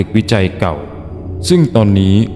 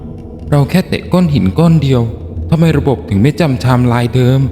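raised-pitch character protest; higher, protesting in disbelief; voice rising; 4 semitones higher than usual. Acted. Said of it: "เสียงเธอเริ่มสูงขึ้น". (เสียงสูงขึ้นเชิงโต้แย้ง)

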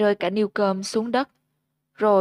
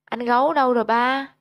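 put-on higher child voice, urgent and eager; eager question; 4 semitones higher, 3 dB louder, faster than usual. Sóc impatiently asks her father where Gấu is, higher and eager. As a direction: press the father anxiously for Gấu. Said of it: "em lại sốt sắng hỏi".

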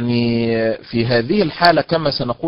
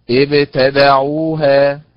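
ابتدعوها very slow and louder, syllables marked; stressed slowly; 5 dB louder, much slower than usual. Shown as a demonstration. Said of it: "إذن تنطق". (نطق بطيء مع النبر)

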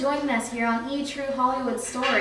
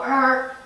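dinosaur rawr; 4 dB louder than usual. Acted. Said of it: "it's a rawr condition".

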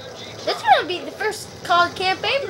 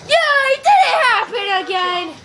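relieved cheer; 5 semitones higher than usual. Real, not acted. Cheering that it did not happen.

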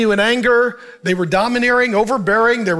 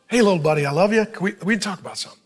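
watched tone, unraised; faster than usual. Retold or imitated. Dad talking to his little buddy eye to eye, gentle and unraised. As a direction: reassure a little boy without pressure. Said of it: "I'd watch my tone, not raise my voice".

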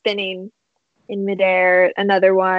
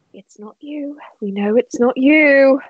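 reassuring; 5 semitones higher than usual. Acted. Nolly reassuring crying Gertrude.

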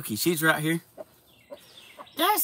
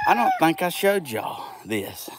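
whisper; 2 semitones higher than usual. Real, not acted. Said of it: "unvoiced whisper, sharing a secret".

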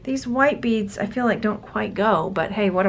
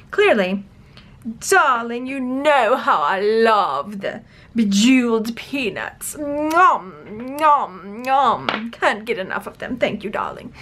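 put-on royal English accent, relishing every word; grand, poorly faked monarch; imitated queen. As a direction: play a greedy queen gobbling treats. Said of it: "trying very poorly to imitate your, your".

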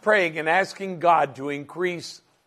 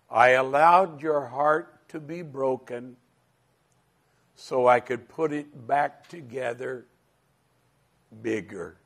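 tender fatherly voice; 2 semitones lower than usual. Retold or imitated. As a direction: speak like a father soothing a hurt child. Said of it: "very tenderly, like a father would speak to a hurting child".

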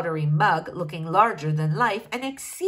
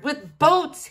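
louder and higher, a king's mock outrage; exclaimed; 5 semitones higher, 4 dB louder than usual. A narrator's reading. King exclaims at his daughter's pajamas, indignant. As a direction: throw it out in disbelief. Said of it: "he exclaimed".

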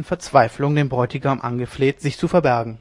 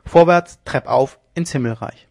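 loud cry that fades by the end; rally them upward, then ease off; rousing shout; 5 dB louder than usual. Acted. Leone spurring his men upstairs, rousing shout.

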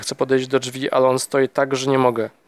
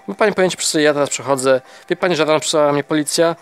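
an angry husband who won't hear any more; losing patience. Acted. Husband cutting off the visitor, mounting exasperation. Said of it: "traci cierpliwość".

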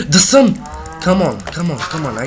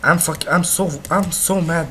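mad; 4 semitones higher, 4 dB louder than usual. Real, not acted. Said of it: "I'm mad".

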